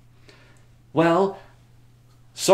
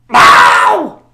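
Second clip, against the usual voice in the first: much higher, loud mock wail; hammed-up no; 12 semitones higher, 16 dB louder than usual. Reacting to the king locked away, loud wail. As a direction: wail it in fake despair.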